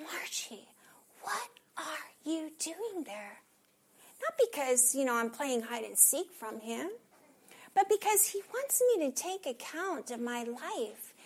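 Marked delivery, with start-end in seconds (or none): 0.0-3.4 soft, slow tender whisper. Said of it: "Sometimes God will say".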